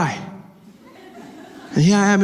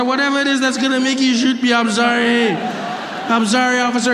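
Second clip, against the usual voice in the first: begging; 5 semitones higher than usual. Retold or imitated. Begging the officer.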